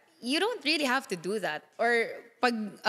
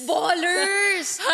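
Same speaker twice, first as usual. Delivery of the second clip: high, loud exclamation; real nostalgic outburst; excited shout; 7 semitones higher, 4 dB louder than usual. Real, not acted. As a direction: shout it back in amused recognition. Excitedly calls back remembered trend.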